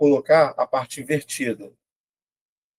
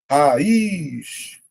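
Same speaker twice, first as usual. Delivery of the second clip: RAIZ drawn out as ra-iiz, long I; syllable by syllable. Shown as a demonstration. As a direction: stretch RAIZ to show the hiatus. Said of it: "Regra dos hiatos".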